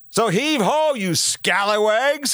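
high, slow pirate hail; rally the crew like a captain; pirate call. Acted.

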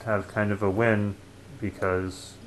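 muffled voice behind a mask; through a face mask. Real, not acted. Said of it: "my voice is kind of muffled because I'm wearing a mask".

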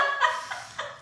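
airless high giggle; breathy laugh. Real, not acted. Joking about her singing, breathless giggle.

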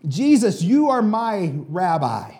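a half-shouted cry to his rabbi; a preacher's mild mock shout for Bartimaeus; mild retold shout. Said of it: "When he is shouting this".

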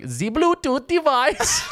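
slow, high robotic announcer; drawn-out device announcement; automated speaker voice. Retold or imitated. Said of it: "It's the same voice".

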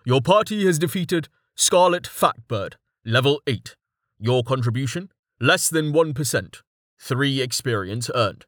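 even game-system readout; system announcement. Acted. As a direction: read like a game notification.

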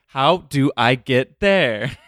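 slow drawn-out mock quote; imitating her way of asking; slow imitation. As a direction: drag out each word. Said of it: "sometimes you'll go like".

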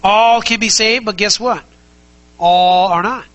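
forceful pulpit emphasis; emphatic. Acted. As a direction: punch it out to the congregation. Preacher driving point home.

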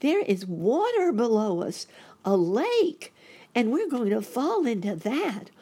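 put-on high, loud, alarmed child voice; boy crying out. A narrator's reading. Boy rabbit seeing a lake below, high loud alarm. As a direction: warn urgently in a high little-boy voice. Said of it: "cried Sammy".

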